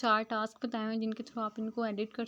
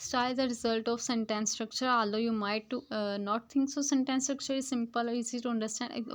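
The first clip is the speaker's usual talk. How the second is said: slow, word-by-word reading of the English text; slow textbook reading; much slower than usual. Shown as a demonstration. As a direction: read each word out carefully to the class. Reads English passage aloud slowly. (धीमी गति से पाठ पढ़ना)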